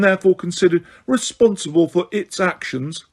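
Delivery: high, prim warning voice; a shrill official lecturing, barely holding it; lightly voiced Umbridge, frightened but pompous. Umbridge citing the law.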